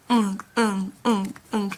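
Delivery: "ung" repeated as short, separate NG syllables; NG sound. Shown as a demonstration. Teacher drilling the final-consonant sound, short separate "ung". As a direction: drill "ung", closing each one on NG. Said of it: "the N G sound is ung".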